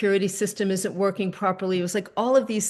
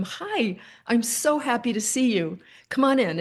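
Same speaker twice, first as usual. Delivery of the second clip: bright, higher welcome at the door; delighted greeting; 4 semitones higher than usual. Retold or imitated. To the repairman at the door, a delighted higher welcome. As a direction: greet him like a long-awaited guest.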